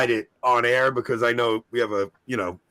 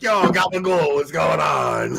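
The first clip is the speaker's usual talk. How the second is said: brother-in-law greeting; 3 semitones higher, 3 dB louder, slower than usual. Retold or imitated. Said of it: "He's like".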